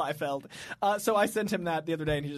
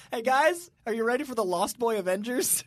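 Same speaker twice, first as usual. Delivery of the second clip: hype announcer; 3 semitones higher, 3 dB louder than usual. Pretend. Mock announcing a team.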